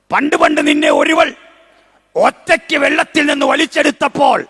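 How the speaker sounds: fervent sermon peak, shouting over music; preaching at full force. Real, not acted. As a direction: preach it to the rafters. Preacher builds to climax.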